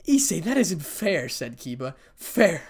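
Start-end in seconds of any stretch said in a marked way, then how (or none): 0.0-1.3 loud, high, drawn-out protest; pleading objection, pitched up. Acted. Acted protest in a quarrel. 2.1-2.6 FAIR thrown back high and loud; incredulous, angry FAIR, much louder; spat out in anger. A narrator's reading. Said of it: "in anger".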